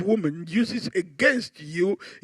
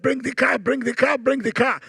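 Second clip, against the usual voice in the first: eager wife; 5 semitones higher than usual. Retold or imitated. Acting the eager wife interrupting.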